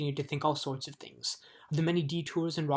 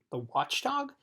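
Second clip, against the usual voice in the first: quizzical; 9 semitones higher, slower than usual. Acted. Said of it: "said Milo quizzically".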